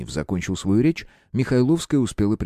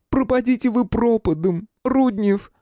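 cursing woman. A narrator's reading. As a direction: spit the curse at him. Woman curses detective. (проклятие высоким женским голосом)

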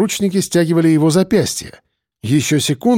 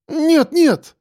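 much higher desperate plea; pleading; 13 semitones higher than usual. A narrator's reading. Girl to detective, high pleading. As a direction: beg. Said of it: "взмолилась она".

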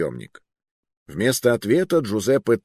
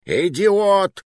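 high, loud outraged yell; roaring; 12 semitones higher, 5 dB louder than usual. A narrator's reading. Furious man at his bungling companion, roaring. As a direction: roar the insult with your voice shooting up. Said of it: "взревел Муруа".

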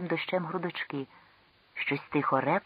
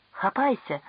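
much higher urgent command; frantic shout; 6 semitones higher, 4 dB louder than usual. Acted. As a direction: shout it down to him. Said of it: "крикнув несамовито Ел".

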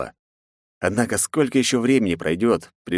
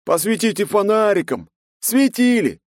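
crowd shouting; 13 semitones higher, 4 dB louder than usual. A narrator's reading. Angry crowd yelling at knight.

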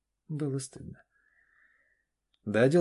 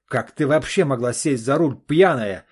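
громкий отцовский крик; сорвись на крик на дочь; срыв на крик; 5 semitones higher, 12 dB louder than usual. Acted. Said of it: "сорвался Олег на крик". (отец кричит на дочь, громко и зло)

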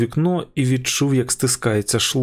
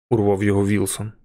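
ordinary delivery

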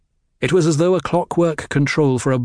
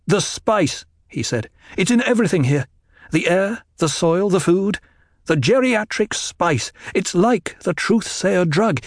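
higher, pressing insistence; urgent warning; 7 semitones higher than usual. A narrator's reading. Paul warning his mother about the spice, urgent. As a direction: drive home the danger.

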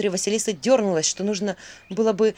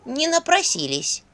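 small voice; 7 semitones higher, slower than usual. Acted. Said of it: "послышался голосок".

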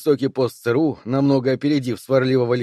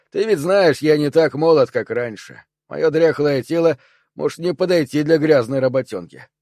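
put-on sarcastic old soldier; 3 semitones higher, 3 dB louder than usual. Dew voiced, sarcastic.

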